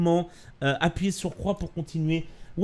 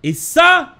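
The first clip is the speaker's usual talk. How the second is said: excited shout; 11 semitones higher, 10 dB louder than usual. Real, not acted. Repeats it, much louder.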